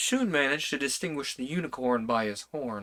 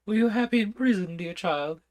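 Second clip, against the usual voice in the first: king voice; 8 semitones higher, 3 dB louder than usual. A narrator's reading.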